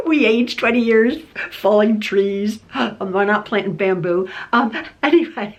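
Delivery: laughing through the words. Real, not acted. Laughing to viewers about aging twenty years from stress, laughing. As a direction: chuckle and let the words ride the laugh.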